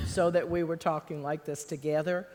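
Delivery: slipping into a Texas accent. Shown as a demonstration. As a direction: talk like a Texan, loud and laughing. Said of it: "fall into a Texas accent".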